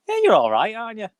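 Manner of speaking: usual speaking voice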